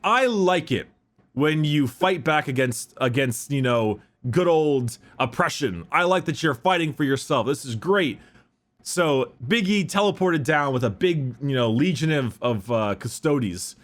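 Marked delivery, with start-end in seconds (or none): 0.0-8.2 higher-pitched, admiring emperor; impressed. Acted. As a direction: act pleasantly impressed by the fighters. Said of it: "He was really impressed".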